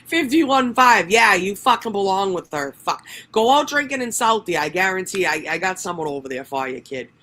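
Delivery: high, loud mock rant in a Boston accent; hammed-up heckling. Riffing in accent after laughing fit.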